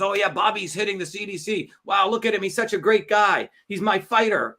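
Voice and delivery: light, excited parody of adoring fans; mock gushing cult members. Host mimics stupid cult members cheering their hero, mock gushing. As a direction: gush mockingly like a devoted follower. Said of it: "all the stupid cult members".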